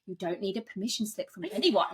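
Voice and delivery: talking while brushing teeth. Real, not acted. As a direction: say it through a toothbrush. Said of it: "I'm brushing my teeth".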